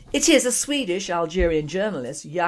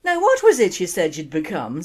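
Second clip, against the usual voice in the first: Irish father; 6 dB louder than usual. Acted. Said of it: "said Daddy".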